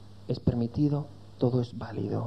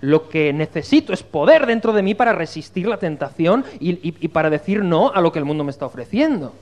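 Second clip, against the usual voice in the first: lightly acted youth, raised and louder; pleading young person; 4 semitones higher, 5 dB louder than usual. Preacher voices a young believer facing temptation, emphatic raised plea. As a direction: speak up for the youth with urgent force. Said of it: "El joven te dirá".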